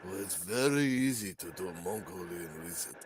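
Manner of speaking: put-on Mongolian accent sliding into Russian; Mongolian wizard accent. Co-host showing his default accent, Mongolian wizard voice. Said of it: "sometimes it slips into Russian".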